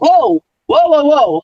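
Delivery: high, laughing whoas; a mock alarmed whoa at being handed the midday show; startled protest. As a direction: play being caught off guard, half laughing. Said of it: "And I was like".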